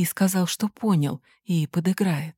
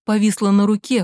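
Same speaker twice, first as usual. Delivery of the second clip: plain reading voice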